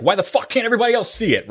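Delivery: high, quick exasperated demand; impatient outburst. Retold or imitated. Host mimicking his impatience with everyone else, exasperated. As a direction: blurt it out fast and high in exasperation. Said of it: "I'm notoriously impatient".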